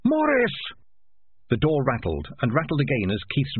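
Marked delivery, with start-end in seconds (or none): 0.0-0.6 high, piercing scream of a name; high-pitched desperate shriek. A narrator's reading. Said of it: "Dangerous Beans screamed".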